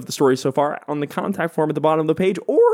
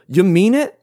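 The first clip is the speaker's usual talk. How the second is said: put-on wholesome 1950s kid; 8 semitones higher, 4 dB louder than usual. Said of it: "they go".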